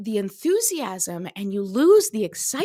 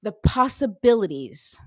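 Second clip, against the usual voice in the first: card announcement; 3 semitones lower than usual. Acted. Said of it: "Ladies and gentlemen".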